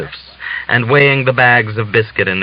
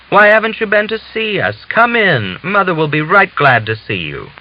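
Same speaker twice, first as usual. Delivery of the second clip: much higher, eager, louder; delighted welcome; 9 semitones higher, 3 dB louder than usual. Acted. Father-in-law overjoyed at Natalia's return, high and eager. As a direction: burst out gladly. Old man delighted to see her.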